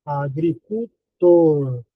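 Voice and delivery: "agricultor" slowly split, lingering on "tor"; "agricultor" in slow separate syllables, ending on a long "tor". Shown as a demonstration. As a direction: sound out "agricultor" piece by piece. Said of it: "O mais forte é tor".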